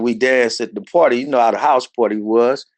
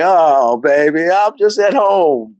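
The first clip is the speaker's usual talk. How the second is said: reassuring mom; 5 semitones higher, 3 dB louder, slower than usual. Retold or imitated.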